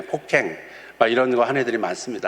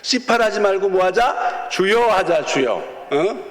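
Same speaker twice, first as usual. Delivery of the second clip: coaxing teacher; 6 semitones higher, slower than usual. Shown as a demonstration. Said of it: "목사님이 너희들한테 부탁할 거는".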